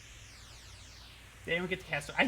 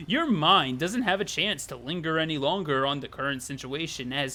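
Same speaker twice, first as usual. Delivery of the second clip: measured visual-novel storytelling; deliberate narrator voice with leaned-on key words; story narration; 3 semitones lower, 4 dB louder than usual. A narrator's reading. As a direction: read it out like a dramatic narrator. Reads game narration aloud.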